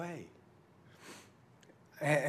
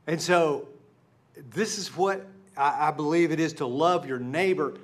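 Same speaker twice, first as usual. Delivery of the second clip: preaching at full force; 2 semitones higher, 5 dB louder than usual. Real, not acted. Pastor urges congregation to let God transform them, fervent preaching. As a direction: build to a fervent sermon climax.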